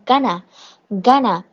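"gonna" as one merged word; reduced going to. Shown as a demonstration. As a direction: demonstrate GONNA, going to run together. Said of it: "going to给省略成一个词".

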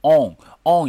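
"On" with the mouth drawn small and rounded; British "on". Shown as a demonstration. Teacher shows learners the British sound, "On" with a small rounded mouth. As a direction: round the lips tightly on "On", British style. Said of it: "一下子整个嘴巴就缩小了".

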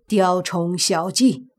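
slow, dismissive sneer; cold scorn. Acted. Middle-aged man after breaking up the evil aura, cold scorn. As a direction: dismiss it slowly with cold contempt. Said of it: "那中年人冷笑一声".

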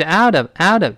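"out of" linked, the t turned to d; linked pronunciation. Shown as a demonstration. Teacher confirming the linked sound for students, linked pronunciation. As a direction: join "out of" into one sound. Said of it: "这么一个声音啊".

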